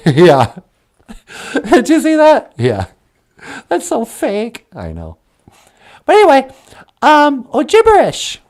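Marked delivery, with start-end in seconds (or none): 0.1-0.6 much lower, odd voiced character; low puppet voice. Puppet answering Natasha, deep voiced character. 2.6-5.2 much lower, odd voiced character; low puppet voice. Puppet answering Natasha, deep voiced character.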